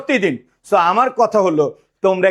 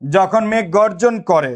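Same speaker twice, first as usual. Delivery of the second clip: slow dictation; slower than usual. Shown as a demonstration. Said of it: "dictating the sentence slowly".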